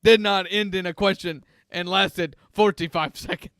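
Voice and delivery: lightly voiced mall Santa, a bit scratchy. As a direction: play a grumpy smoker Santa, only slightly put on. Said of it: "I don't know what this accent is that Santa is using".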